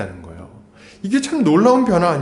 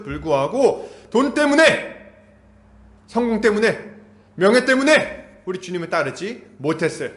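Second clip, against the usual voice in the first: higher, rising sermon fervor; fervent preaching; 6 semitones higher than usual. Acted. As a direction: preach it with mounting intensity. Preaching climax.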